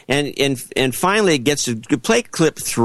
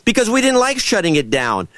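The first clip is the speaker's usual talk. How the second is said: imagined lawyer reply; 7 semitones higher than usual. Retold or imitated. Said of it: "what she should have said was".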